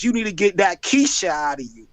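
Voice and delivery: lightly put-on Charleston accent; a hint of a Charleston accent. Shown as a demonstration. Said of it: "in my Charleston voice".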